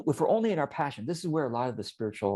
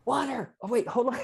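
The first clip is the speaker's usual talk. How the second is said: mock shout; 13 semitones higher than usual. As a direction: call out like a comic street hawker. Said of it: "if I shout, it'd be kind of weird".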